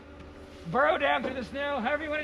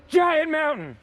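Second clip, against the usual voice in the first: loud, higher call-out; demonstrated call; 4 semitones higher, 5 dB louder, slower than usual. Shown as a demonstration. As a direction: shout it for the class to copy. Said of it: "I want you to say".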